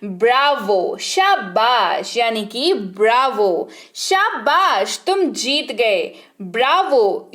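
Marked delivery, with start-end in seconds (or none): 1.0-2.2 slow, drawn-out praise; praising. Shown as a demonstration. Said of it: "शाबाशी देनी हो". 3.9-6.1 praising. Shown as a demonstration. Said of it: "शाबाशी देनी हो".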